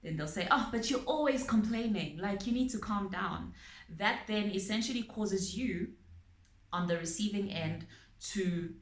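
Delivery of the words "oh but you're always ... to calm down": louder, higher brush-off; mock irritated retort. Abuser brushing off a partner's complaint, irritated and louder. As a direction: snap back dismissively. Abuser snapping back at you.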